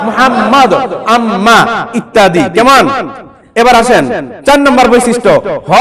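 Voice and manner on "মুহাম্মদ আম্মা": মুহাম্মদ and আম্মা with a long double m; sounded doubled m. Shown as a demonstration. Teacher answers own question for pupils, doubled m in মুহাম্মদ, আম্মা. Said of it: "আমরা কি উচ্চারণ করব?".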